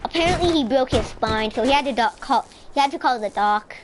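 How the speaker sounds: livelier, lifted storytelling voice; playful story narration. Pretend. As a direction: tell the mishap like a made-up tale. Tells a made-up story over play.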